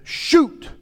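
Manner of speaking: high, loud shouted order; shouted command. Acted. Acting out Elisha's command to shoot.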